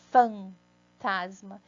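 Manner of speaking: fantasma stretched out very slowly, each syllable apart. Shown as a demonstration. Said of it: "ó".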